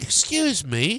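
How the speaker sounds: put-on British-style accent. Retelling how a british person addressed someone, imitating a british accent. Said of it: "a Brit who was being like".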